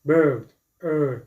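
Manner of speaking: BIRD then ER, the vowel held alone; ER sound model. Shown as a demonstration. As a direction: say "bird", then isolate "er" firmly.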